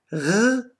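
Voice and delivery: "R" as a throaty rrr; consonantal R. Shown as a demonstration. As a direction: sound out "R" as the consonant to be avoided. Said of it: "wird nicht gesprochen".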